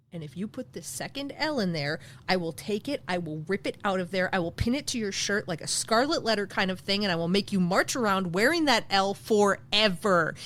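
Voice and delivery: playful tirade swelling to the last word; mock threat. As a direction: threaten in a low voice, rising to a big finish. Mock threat over spelling.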